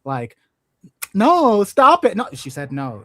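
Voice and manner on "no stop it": Bill Burr impression. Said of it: "I'm hearing the Bill Burr".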